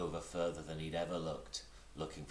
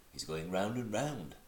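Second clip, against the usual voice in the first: much impressed; 3 semitones higher than usual. Acted. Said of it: "much impressed".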